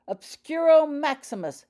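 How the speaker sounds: booming, high commanding spell; loud commanding. A narrator's reading. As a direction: command the house to seal. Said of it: "she shouted again at the next house".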